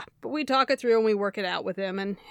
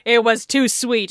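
laughing; 8 dB louder than usual. Real, not acted. Laughing while explaining.

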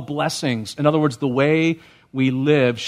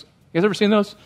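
You guys ever seen those asked again higher, coaxing an answer; higher repeat; 5 semitones higher, faster than usual. Real, not acted. Repeats question higher to crowd.

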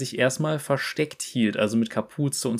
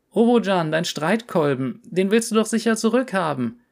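put-on much higher, eager kid calling out; child's voice; 7 semitones higher than usual. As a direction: call after him like an excited little boy. Anaktu, ein Kind, ruft. (hohe Kinderstimme, eifrig rufend)

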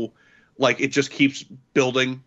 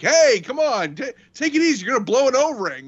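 high, urgent pleading; mock-calm him down, pitched up and fast; imitating a worried friend; 9 semitones higher, 4 dB louder than usual. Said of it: "he's like".

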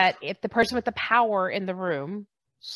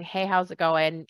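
breezy, automatic greeting; casual throwaway hello. Shown as a demonstration. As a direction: toss it off without caring. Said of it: "in that, like, throwaway tone".

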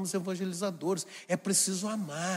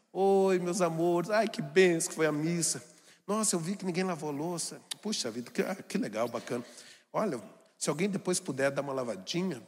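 sweet cheerful mother; 3 semitones lower than usual. Retold or imitated. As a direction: coax the family gently about the dishes. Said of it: "chegar toda feliz depois da missa". (mãe doce e carinhosa, falando devagar)

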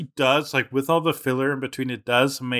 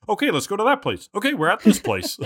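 high mock voice; 7 semitones higher than usual. Mocking characters' quick travel.

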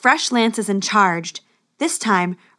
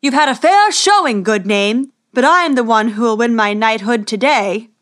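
hollering across the field; 6 dB louder than usual. Acted. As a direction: shout a cocky boast at the rival. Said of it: "hollered at Max from across the field".

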